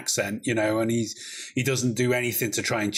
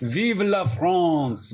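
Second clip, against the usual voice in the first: mock patriotic cheer; 6 semitones higher, 3 dB louder, much slower than usual. Echoing the patriotic toast.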